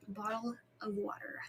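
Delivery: hushed, whispery repeat; very soft whisper, trailing down; whispered echo. Real, not acted. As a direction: whisper it softly to yourself. Echoes the same words in whisper.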